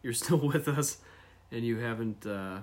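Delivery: recorded on an iPhone; thin tinny phone sound; tin can phone. Real, not acted. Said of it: "sounds like we're recording from a tin can".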